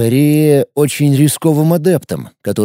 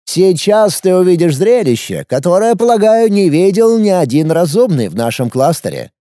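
booming biblical narration; 4 semitones higher than usual. Acted. Villain proclaims world's destruction.

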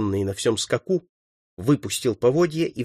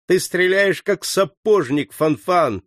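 raised, exasperated scolding cry; furious shout; 6 semitones higher, 3 dB louder, slower than usual. A narrator's reading. Enraged leader to a comrade who missed, shouting. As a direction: berate a hopeless marksman. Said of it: "крикнул взбешённый Сорвиголова".

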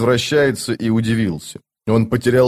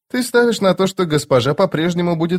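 higher, cool shadow god; a lightly voiced stern immortal; Cotillion voice; 7 semitones higher than usual. Cotillion voice again.

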